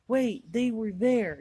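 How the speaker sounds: slow, high, loud retold objection; bewildered protest. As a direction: act out confused protest, stretching the words.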